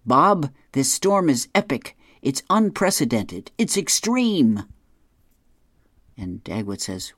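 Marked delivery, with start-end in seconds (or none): 0.1-4.6 high, loud, breathless newscaster hype; TV weatherman hype. Retold or imitated. TV anchor hyping an epic storm to viewers, high loud hype. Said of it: "we hear from the television".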